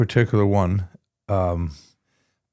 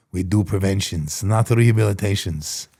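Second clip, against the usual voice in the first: put-on Israeli accent. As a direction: imitate a rabbi's Israeli accent. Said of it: "But he said it with his weird Israeli accent".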